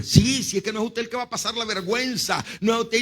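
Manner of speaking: high-pitched retold indignation; offended. Mother snapping back at the pastor about shame, offended. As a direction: imitate an affronted outburst. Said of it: "Se ofendió".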